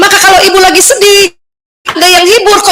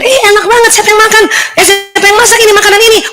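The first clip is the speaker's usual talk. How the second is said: impressed friend; 6 semitones higher, faster than usual. Retold or imitated. Friend praising the cooking.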